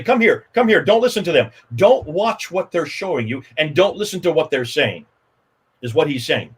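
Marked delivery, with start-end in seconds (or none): 0.0-5.0 calling the crowd away. Retold or imitated. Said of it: "You can see him say".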